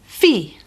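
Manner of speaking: fi said as the strong part of difícil; fi, the stressed syllable of difícil. Shown as a demonstration. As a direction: lean on fi. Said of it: "the strong part of the word is".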